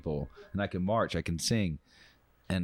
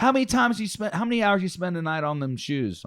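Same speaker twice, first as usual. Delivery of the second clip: much higher, louder astonished question; drill sergeant; 9 semitones higher, 4 dB louder than usual. Retold or imitated. Drill sergeant grilling the private about shining, high and loud. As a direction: fire it off in disbelief.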